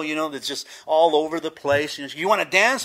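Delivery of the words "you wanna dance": loud, high, eager invitation; bouncy teenage girl. Retold or imitated. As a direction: imitate a pushy, excitable girl. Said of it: "jumping up and down teenage girl".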